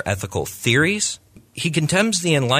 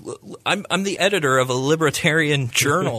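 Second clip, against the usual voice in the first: higher-pitched incredulous retort, half laughing; amused disbelief; 5 semitones higher than usual. Retold or imitated. Libertarian editor retorting to an apologist who calls him Marxist, amused disbelief. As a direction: imitate someone laughing off an absurd accusation. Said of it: "laughing with this guy, like, going".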